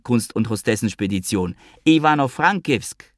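high, squealing plea of a left-out friend; pleading Avi. Acted. Avi squeals at the two that he wants to come along.

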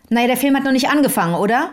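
quick, sharp retort from the woman in the cinema; mildly imitated curt snap at the narrator; brisk rebuff to a polite stranger, only lightly acted; hard tone. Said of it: "mit einem ziemlich harten Ton sagt sie".

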